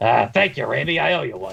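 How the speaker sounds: rough, creaky, gruff voice. Narrating a scene and voicing a male character's reply: gruff character voice. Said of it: "he says in a gruff voice, like".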